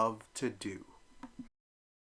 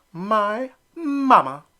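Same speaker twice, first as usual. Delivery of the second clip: slow, high, loud retort; bellowing; 11 semitones higher, 9 dB louder, much slower than usual. Acted. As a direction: shout it back proudly. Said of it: "Elmer bellowed back".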